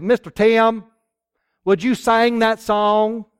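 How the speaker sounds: put-on boy on the bus drawling in a southern accent, slow; drawn-out southern kid asking a favor. Little boy asks his bus driver, in a southern drawl. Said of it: "they got a real southern drawl".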